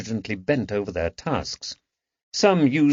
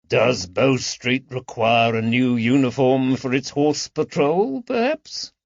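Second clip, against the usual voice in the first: lightly voiced tailor, mock-innocent, pitch jumping up on perhaps; a hint of sly amusement at the red waistcoat; teasing tailor. Drachman mocks Woods's coat.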